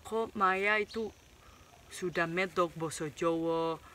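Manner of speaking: a hint of a surprised neighbour; curious Indonesian commenter. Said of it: "aku pernah juga dengar".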